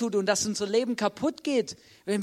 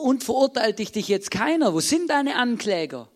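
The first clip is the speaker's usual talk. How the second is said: raised, higher voice for an acted question; insistent questioning; 3 semitones higher, 5 dB louder than usual. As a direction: challenge her with loud, rising incredulity. Acting out Jesus questioning the woman.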